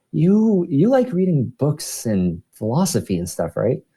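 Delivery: a hint of a curious woman coworker; imitating a coworker. Imitating coworker Laura asking questions.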